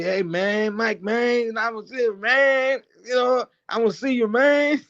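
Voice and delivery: lightly hammed-up fake American accent; teasing a friend by parroting his put-on American accent; mock American accent. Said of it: "trying to speak with American accent".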